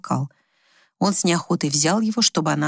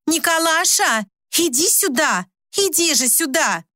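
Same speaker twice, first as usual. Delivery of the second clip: calling out; 10 semitones higher, slower than usual. A narrator's reading. Wife calls from another room.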